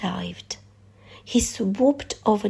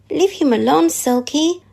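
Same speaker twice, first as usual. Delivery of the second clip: raised, higher call to stop the teasing; shouting; 6 semitones higher, 5 dB louder than usual. A narrator's reading. Nim shouting at Silky to leave Fred alone, raised voice. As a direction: shout it out at the big sea lion. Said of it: "Nim shouted".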